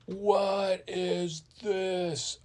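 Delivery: high, very drawn-out astonishment; stunned disbelief. Acted. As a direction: stretch each word in hammed-up shock. Character lands among dinosaurs.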